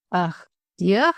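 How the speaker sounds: rising, puzzled "A dear?"; puzzled repeat. Acted. Governess repeats the boy's compliment, puzzled. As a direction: echo the word back, baffled. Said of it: "she repeated".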